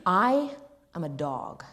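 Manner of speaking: measured, deliberate delivery; lightly voiced film actor. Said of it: "do this impersonation".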